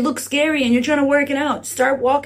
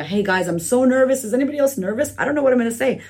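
mock nervous. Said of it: "as honestly as I'm nervous to get on social media".

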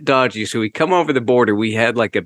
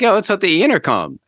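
mock classmates; 9 semitones higher than usual. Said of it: "And they're like".

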